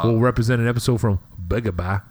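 light mock Boston accent; thick Boston accent. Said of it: "you said it in a Boston accent".

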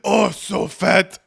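mock chant while shoving in a pickup game; drawn-out taunt. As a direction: stretch it out like a playground tease. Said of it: "I remember this".

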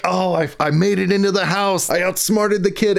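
pleased with himself. Retold or imitated. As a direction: act out being pleased at outwitting someone. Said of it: "looks so pleased with himself".

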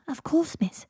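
lightly voiced house elf; a hint of a dutiful servant elf. A narrator's reading. House elf answering its mistress.

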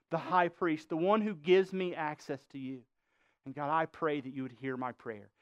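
acted brokenhearted prayer, quietly spoken; humble prayer. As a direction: plead humbly before God. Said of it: "Do you see the difference?".

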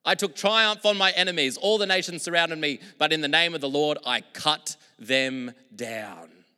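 loud, high declaration, slowing hard on I cut them down; preacher booming a victory psalm; triumphant psalm. Acted. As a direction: announce the victory with force. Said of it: "what else it says in Psalm".

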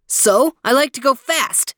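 high, careless sun voice; breezy, carefree sun; warm beaming sun voice. A narrator's reading. The sun answering.

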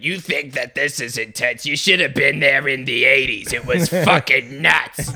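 lightly voiced old theatrical villain; a hint of a campy old villain; Disney villain voice. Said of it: "the old one who sounds like a Disney villain".

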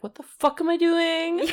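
high, loud mock panic; exasperated outburst. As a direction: blurt it out in disbelief. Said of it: "Allison's like".

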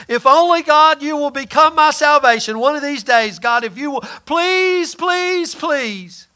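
pleading prayer, pitch rising on the pleases; mock begging. Preacher imitating a begging prayer, pleading. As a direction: beg God like a desperate man.

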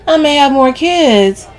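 high, loud, stretched concession; indignant comeback; defensive retort. A narrator's reading. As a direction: concede it loudly, ready to argue. Camille argues back defensively.

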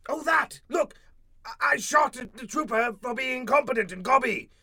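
arrogant shouting. Acted. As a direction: bellow your authority. Alien overlord shouts defense.

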